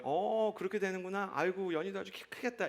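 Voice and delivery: put-on softly indulgent dad humoring his child; gentle, affectionate cooing approval; fond indulgence. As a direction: play along tenderly, voice softened. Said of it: "그냥 귀엽게 들어주는 거예요".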